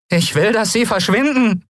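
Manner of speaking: put-on quick hurried order from a boy; boy telling his friend to wait, lightly voiced; young boy. Boy frightened.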